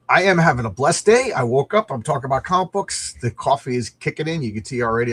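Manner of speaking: too much caffeine. Real, not acted. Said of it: "I'm getting the caffeine jitters".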